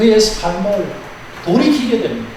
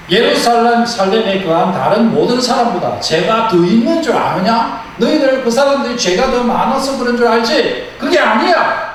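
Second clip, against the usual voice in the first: voicing Jesus; 4 semitones higher than usual. Jesus voiced rebuking listeners.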